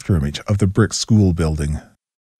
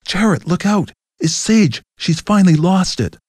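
much higher, mock alarmed shout; hammed-up imagined crew yell; shouted warning; 10 semitones higher than usual. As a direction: crew warning Jarrett about Sage. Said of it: "shout out".

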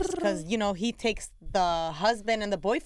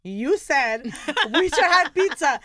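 1 laughing quote; 5 semitones higher, 7 dB louder, slower than usual. Retold or imitated. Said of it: "He goes".

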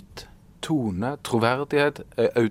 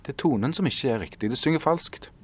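higher, musing self-diagnosis; inner realization; 5 semitones higher than usual. Retold or imitated. Writer realizing the tone is off, lightly voiced. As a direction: voice the thought as it dawns on you. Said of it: "jeg tenkte".

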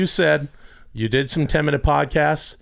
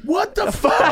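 high, laughing shout of disbelief; laughing mock shout; much slower than usual. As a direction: shout it in shocked disbelief, cracking up. Neighbor's shocked reaction on discovering.

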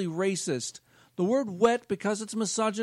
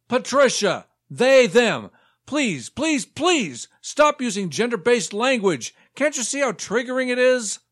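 indignant; 5 dB louder than usual. Acted. Offended member scolds chair.

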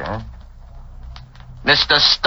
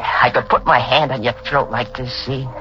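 low menacing; 6 semitones lower than usual. Acted. Man threatens her during the dance.

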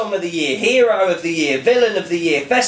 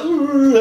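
stifled yawn hum; 8 semitones higher than usual. Retold or imitated. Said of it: "the face that you pull".

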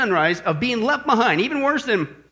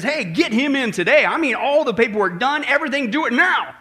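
eager orders, lightly acted; excited general; 2 semitones higher than usual. General turns to his aide, mildly excited. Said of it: "he gets all excited".

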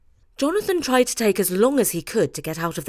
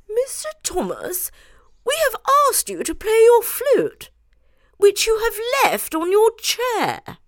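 high, stern queenly voice, the name breathed out; a hint of a displeased Queen; very sternly; 14 semitones higher than usual. A narrator's reading. The Queen sternly ordering Jonathan to play his flute. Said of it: "who said very sternly".

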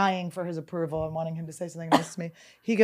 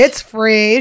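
1 excited shout; 2 semitones higher, 11 dB louder than usual. Acted. Shouting the ad line over Esther.

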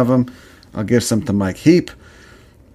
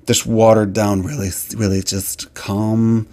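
a touch of sneering calm; mock calm voice; slower than usual. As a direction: send up the bland, gentle tone. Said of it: "mocking calm California talk".

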